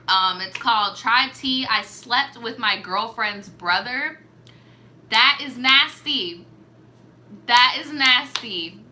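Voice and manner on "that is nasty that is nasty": slow, louder disgusted verdict. Real, not acted. Reacting to the story title, disgusted and slow. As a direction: drag out the disgust.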